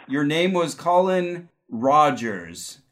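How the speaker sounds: slow, drawn-out psychic reveal; psychic hotline. Acted. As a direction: channel the name slowly. Psychic reading.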